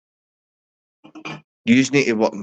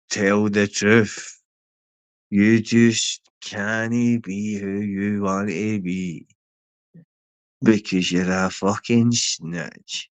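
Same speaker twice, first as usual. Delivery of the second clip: slow taunt; 2 semitones lower, slower than usual. Real, not acted.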